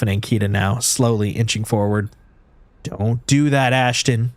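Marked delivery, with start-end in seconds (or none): 2.8-4.3 snarl. Acted. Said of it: "Ankita snarls".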